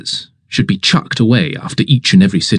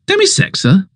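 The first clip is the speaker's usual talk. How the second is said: the baffled master can't believe it; incredulous echo. Acted. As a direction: repeat the word way up high in disbelief. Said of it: "Doesn't fit, doesn't even make sense".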